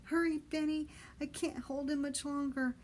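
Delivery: high, loud desperate plea; boy begging Benny to hurry; urgent plea. Acted. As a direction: beg for help fast. Boy begging while dangling.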